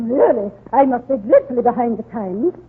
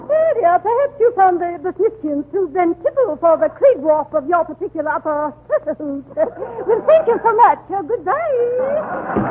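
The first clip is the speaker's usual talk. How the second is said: haughty laughing exit; 4 semitones higher than usual. Acted.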